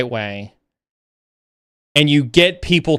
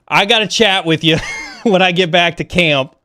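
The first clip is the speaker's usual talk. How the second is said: sheepish laughing confession; 3 semitones higher than usual. Retold or imitated.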